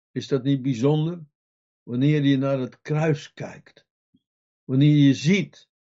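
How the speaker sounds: usual speaking voice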